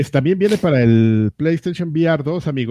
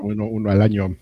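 lightly voiced old man, a bit lower; 3 semitones lower than usual. Shown as a demonstration. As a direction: say it like a creaky little old man. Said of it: "así como viejito".

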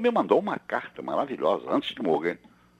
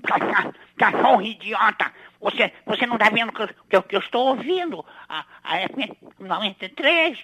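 high, cranky cartoon grump ranting at a dog; irate cartoon scolding, pitched way up; Eustácio from Cão Coragem; 11 semitones higher, 3 dB louder than usual. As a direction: scold in a squeezed high voice, bursting into loud shooing. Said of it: "palavras do Eustácio do Cão Coragem".

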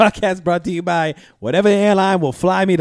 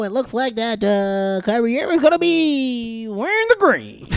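TV analyst voice; 4 semitones higher than usual. Retold or imitated. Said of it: "That's literally what you would get from N B A T V".

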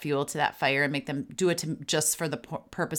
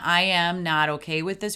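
louder, firm parental boundary; firm, not threatening; 5 dB louder than usual. Shown as a demonstration. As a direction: state the limit forcefully without threatening. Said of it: "not in a threatening voice".

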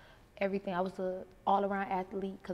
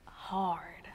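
whispered; 4 dB quieter than usual. Real, not acted. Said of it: "talk to us about your experience".

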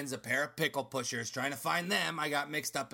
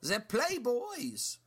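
mysterious pickle matriarch; 11 semitones higher than usual. Acted. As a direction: savor the legend like a villain revealing her secret. Mirna explains the pickle trade.

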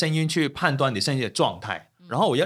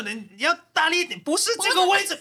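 high, laughing teacher voice; teacher instructing. Retold or imitated. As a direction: coach a student, half laughing. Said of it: "我就跟他就".

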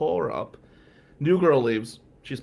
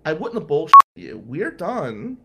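loud insistence; 2 semitones higher, 9 dB louder than usual. Retold or imitated. Insisting to angry girlfriend.

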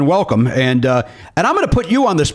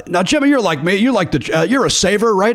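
higher, imitating an old manager's advice; lightly voiced Ken Severa pitch; Ken Severa impression; 7 semitones higher than usual. Host imitates Ken Severa giving money advice. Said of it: "Ken Severa once, Tom said to me".

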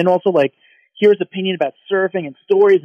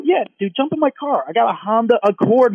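eager offer; 5 semitones higher than usual. Retold or imitated.

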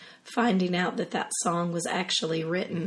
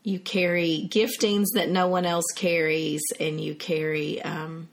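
raspy voice. Real, not acted. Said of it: "my raspy, sultry voice sister".

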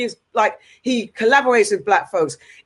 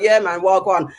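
imitated London street slang; casual London slang greeting, lightly imitated; London slang accent; 3 semitones lower than usual. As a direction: mimic a London slang talker. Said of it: "if you'd seen Daniel talking like".

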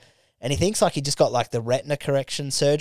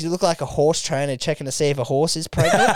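laughing; 3 semitones higher than usual. Real, not acted. Quoting Matty's joke, laughing.

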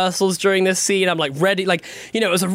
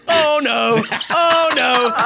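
mock dread; 6 semitones higher, much slower than usual. Dread on locking eyes onstage.

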